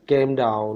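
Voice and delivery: "calm" said as "kem", with a short e; mispronounced calm. Shown as a demonstration. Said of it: "इस तरह पढ़ता था". ("calm" का गलत उच्चारण, "केम" जैसा)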